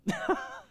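short high-pitched chuckle; imitated chuckle. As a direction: imitate the man's tickled little laugh. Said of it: "he just starts laughing".

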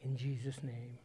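measured prayer with long pauses between phrases; slow prayer reading. Real, not acted. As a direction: read it slowly to the Lord, leaving space to reflect. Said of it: "I'm gonna read it slower, slowly".

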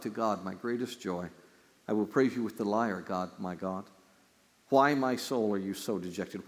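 hushed reverent reading of scripture. Acted. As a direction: read the psalm with gravity. Reading psalm aloud in sermon.

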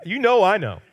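preacher hamming up Peter's eager protest. Retold or imitated. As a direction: jump in like the keen disciple who wants credit. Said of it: "I'm sure Peter's thinking".

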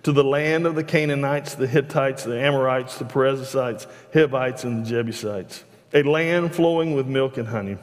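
steady, measured Bible reading voice; scripture reading. Acted. Preacher reading Exodus to the congregation, measured and steady. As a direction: read the passage out to the congregation. Reads scripture aloud from the pulpit.

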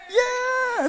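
high, loud yeah; shout. Shown as a demonstration. Pastor shouting to a church sister, high and loud. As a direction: shout it across the room. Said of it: "you shout that".

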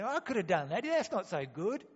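mock proud dismissal; dismissive pride. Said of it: "Or you say".

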